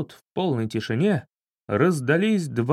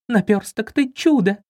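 much higher and louder, rising with joy; delighted cry; 7 semitones higher, 3 dB louder than usual. Acted. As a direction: gush with happiness. Margo jumps with joy. (радостный восторженный крик)

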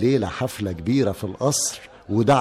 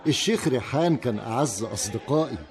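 laughing; 3 dB quieter than usual. Acted. صديق يضحك مع التجار.

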